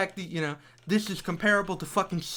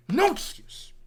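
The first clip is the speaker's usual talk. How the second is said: whisper; 10 semitones higher than usual. Real, not acted. Whispered aside in rant.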